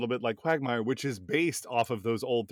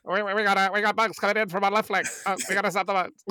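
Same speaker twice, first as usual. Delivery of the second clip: higher urgent radio airman; pilot voice; 7 semitones higher than usual. Acted. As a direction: call the flank like an old pilot. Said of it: "do this voice on Helldivers".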